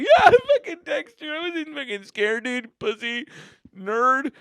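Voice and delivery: high, dismissive teasing; cocky brush-off. Retold or imitated. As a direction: play it tough and snotty. Brushing off Dexter, mocking.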